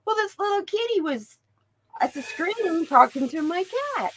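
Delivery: usual speaking voice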